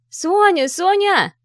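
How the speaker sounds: very high, loud yells of a name; shouting. Acted. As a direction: scream her name across the crowd. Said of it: "закричала позади Арина".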